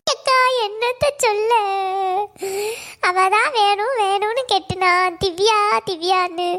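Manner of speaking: slow, drawn-out wail of complaint; crying as she confides; tearful lament. Acted. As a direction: pour it out slowly through acted tears. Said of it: "Selli, இப்படி அழாத".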